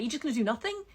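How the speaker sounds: sharp, disbelieving challenge; frustrated at people who accept everything, exasperated; exasperated question. Real, not acted. Ranting at complacent people, a first exasperated ask.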